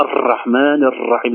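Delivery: الرحمن الرحيم with the R trilled repeatedly; over-rolled R. Shown as a demonstration. Teacher showing third error, R rolled over and over. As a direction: let the R of الرحمن rattle too long. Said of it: "ولا".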